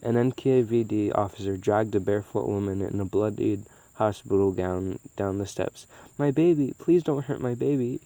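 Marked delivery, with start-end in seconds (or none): 6.2-8.0 mild screamed plea. Acted. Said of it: "she screamed".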